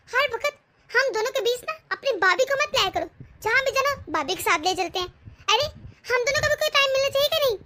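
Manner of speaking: sharp, rising anger; wife refusing to go if sister-in-law comes, angry; angry outburst. Acted. Wife's angry outburst at husband.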